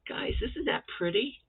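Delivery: hushed whisper to the viewers; awed whisper. Real, not acted. Crafter to her viewers, admiring a square in a whisper. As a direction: whisper it like a secret treasure.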